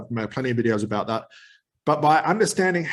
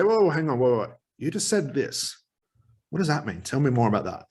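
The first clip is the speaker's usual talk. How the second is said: polite interruption. Shown as a demonstration. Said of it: "So I politely interrupt".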